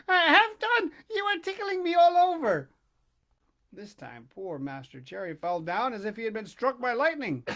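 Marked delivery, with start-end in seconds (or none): 0.1-2.7 laughing, tickled. A narrator's reading. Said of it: "the same little voice say, laughing".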